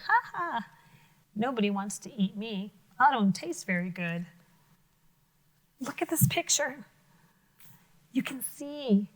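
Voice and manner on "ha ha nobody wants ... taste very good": lightly voiced smug toad; a hint of a pleased little toad; toad gloating. Teacher voicing the toad's smug thoughts to children. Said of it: "because he knows that".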